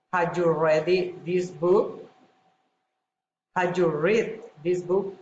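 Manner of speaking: questions rising at the end on "book"; rising intonation. Shown as a demonstration. Teacher demonstrates a general question, rising intonation on "book". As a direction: lift "book" as in a yes-or-no question. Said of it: "rising intonation".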